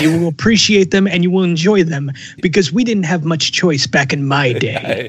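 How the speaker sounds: a hint of a grumpy old man lecturing the kids; lightly voiced old-timer. Old-timer lecturing the young gamers, mildly mock-grumpy.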